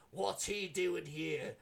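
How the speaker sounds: a hint of a wary wife, slow; lightly voiced wife, slow and suspicious. Wife seeing her husband's war buddy, lightly voiced and slow. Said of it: "she's like".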